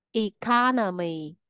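eCOnomy, stressed on CO; third-from-last syllable stress. Shown as a demonstration. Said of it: "trọng âm thường rơi vào âm tiết thứ ba".

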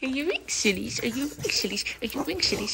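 put-on high, loud doting baby talk to the dog; mom dog voice. Owner baby-talking her French bulldog Bruno, loud and cooing. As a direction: coo at the puppy like a doting mom. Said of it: "I'm so annoying with my mom dog voice".

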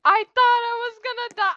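high, loud breathless relief; shaken relief. Real, not acted. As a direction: still rattled after the scare. Just escaped death in game.

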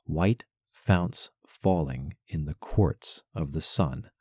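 slow, "White founts falling" strong, then weak weak strong; stressed scansion reading. Shown as a demonstration. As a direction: scan the line, leaning on the strong syllables. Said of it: "Strong, strong, strong, weak, weak".

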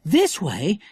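put-on high, eager boy call; excited cry. A narrator's reading. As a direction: call the others over eagerly. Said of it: "cried Jack".

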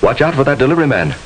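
urgent warning. Acted. Narrator warning the viewer at the wheel, fast urgent alert. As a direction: snap a fast alert before the crash. Narrator warns the imagined driver.

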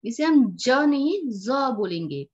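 slow contrast of ज as j and ज as z; teacher demo of ज versus ज with nukta, unhurried; nukta sound contrast. Shown as a demonstration. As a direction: say the first ज as j and the second as z, slowly. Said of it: "इस dot को हम नुक्ता बोलते हैं".

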